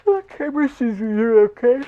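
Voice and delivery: put-on very high, sweet baby-talk voice. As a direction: coo at it like a pet. Talks to the shark toy.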